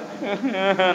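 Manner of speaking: imitated crying in short bursts; mock sobbing. Preacher mimics man crying behind the imam, mock sobs. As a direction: act out a man's snuffling sobs. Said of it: "bapak itu di belakang nangis dia".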